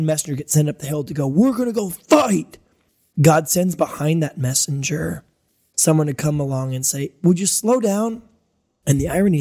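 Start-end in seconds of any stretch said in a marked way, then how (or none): 1.3-2.6 much higher, slow, put-on voice of a charging messenger; eager messenger. The adrenaline messenger heading up the hill, much higher and slow. 7.2-8.2 a lightly voiced, much higher slow plea; calling after. The helper God sends catching the messenger, much higher and slow.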